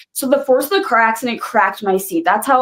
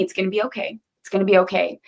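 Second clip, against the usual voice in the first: much softer, a hushed it's gonna be okay; soft reassurance; 5 dB quieter, faster than usual. Retold or imitated. Rescuer John calming the trapped driver, softly reassuring. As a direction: soothe her gently, barely above a murmur. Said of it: "he just kept telling me".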